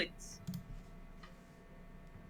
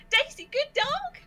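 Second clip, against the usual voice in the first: stunned disbelief; 5 dB louder than usual. Acted. Daisy stunned at being praised.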